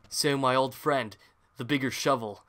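a light northern Minnesotan accent, mock grave. Shovel Knight voiced to his rival in a light Minnesotan accent. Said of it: "a northern Minnesotan accent".

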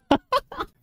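sudden squeaky laugh; high-pitched disbelieving laugh; high burst of laughter. Real, not acted. Reacting to absurd clip.

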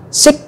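"six" ending in separate K and long S; final K-S. Shown as a demonstration. Teacher explaining final X is two sounds, K-S. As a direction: split the end of "six" into "k-sss". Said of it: "âm cờ và âm S".

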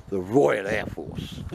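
drawn-out, slow emphasis on "Royal"; stress on Royal. Real, not acted. Vlogger crediting who provided breakfast, stressing "Royal". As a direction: lean hard and long on the word "Royal". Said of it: "Emphasis on the Royal".

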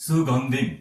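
সুগন্ধিম। with a clean s, never sh; dental s pronunciation. Shown as a demonstration. Teacher shows the dental s, সুগন্ধিম। modelled carefully. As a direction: sound সুগন্ধিম। starting on a plain s. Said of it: "দন্ত স এর উচ্চারণ হবে".

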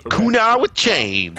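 high, slow hammed-up card name; mock duelist callout. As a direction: call the card like a cartoon villain.

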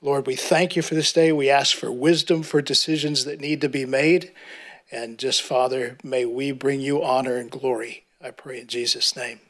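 ordinary talk, nothing marked

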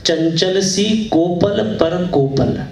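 lilting verse with drawn-out words; poem recitation. Acted. Poet wonders at the garden's beauty before listeners, lilting recitation. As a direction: recite musically, lingering on the phrases.

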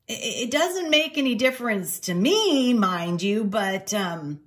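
a hint of an awkward old clerk; lightly voiced, hedging innkeeper; flustered beagle innkeeper.

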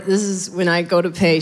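usual speaking voice

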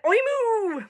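high oink sliding into a long moo; muddled oink-moo. Acted. Pig trying to oink, muddled high oink-moo. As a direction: start an oink, swoop into a falling moo. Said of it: "That's a combination of oink and moo".

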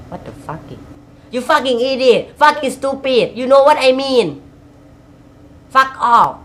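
high, slow, stretched-out fake English swearing; mock English rant. Vlogger mimics a foreign ranter, swearing in a high stretched voice. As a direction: hammer out each curse in a put-on foreign voice.

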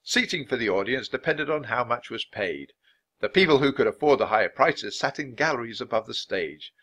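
mildly dramatic read-aloud; understated theatrical reading from a book; loud dramatic reading. A narrator's reading. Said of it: "Jack kept reading in a loud, dramatic voice".

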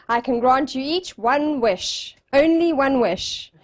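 slow, measured genie decree. Retold or imitated. Genie granting wishes to three friends, slow and stately. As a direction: grant it slowly, word by word. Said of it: "So the genie says".

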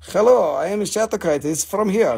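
little rock creature piping up; playful accented creature greeting. Pretend. Little creature up in the rock saying hello, tiny-creature voice. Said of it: "there's a little creature up in there".

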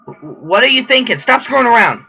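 high-pitched exasperated scolding; acted, rising exasperation. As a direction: scold them, pitch climbing as you go. Scolding in acted game dialogue.

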